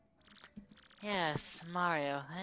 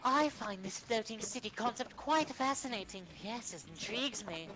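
posh voice; 5 dB quieter than usual. Acted.

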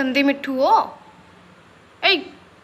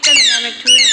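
shrill squawking parrot copy, far higher and louder; parrot mimicry; 8 dB louder than usual. Real, not acted. Pet parrot copying its owner, squawking. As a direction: screech it like a talking parrot.

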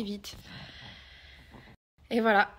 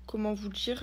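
whispering; 4 dB quieter than usual. Real, not acted. Aside to viewers.

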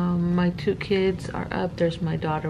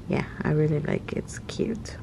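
hushed whisper, breath only; 2 semitones lower, 4 dB quieter than usual. Real, not acted. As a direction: keep it to a whisper so nobody wakes. Whispering while kids are around.

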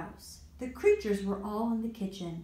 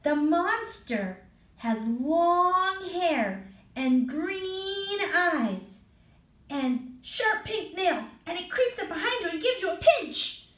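spooky description; 9 semitones higher, 3 dB louder than usual. Acted. Ian describing the monster.

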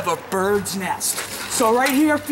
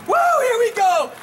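hyped up; 8 semitones higher than usual. Real, not acted. Hyping himself before final bucket.

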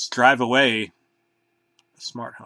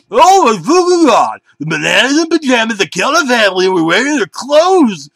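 much higher, louder panicked shrieking; hysterical scream; 10 semitones higher, 10 dB louder than usual. A narrator's reading. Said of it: "I screamed erratically".

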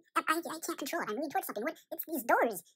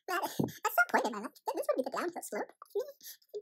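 crying; 6 semitones higher than usual. Acted. Despairing, alone in the white room.

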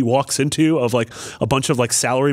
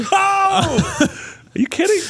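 indignant; much slower than usual. Real, not acted. Indignant reaction to teasing.

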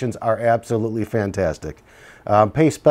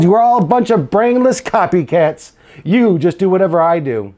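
higher, louder angry yell at the copycats; 6 semitones higher, 5 dB louder than usual. Acted. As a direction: shout it at the whole class. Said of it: "Stephanie yelled".

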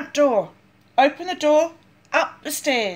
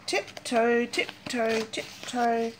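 hushed tiptoe; 6 dB quieter, slower than usual. Acted. Sneaking into cave, quieter.

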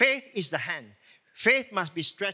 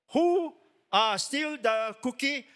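upset grandparent; 5 semitones higher, slower than usual. Retold or imitated. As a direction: play the upset grandparent scolding the child. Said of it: "you get very upset".

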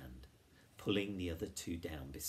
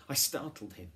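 higher, louder exclamation; startled cry; 7 semitones higher, 7 dB louder than usual. A narrator's reading. Girl explaining the dog's snarl to friends, startled cry. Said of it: "cried Flavia".

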